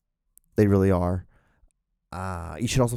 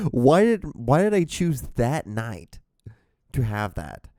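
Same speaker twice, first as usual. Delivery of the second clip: pained, incredulous "why"; exasperated lament; 3 semitones higher, slower than usual. Real, not acted. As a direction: wail it in regret at yourself. Laments his own embarrassing story.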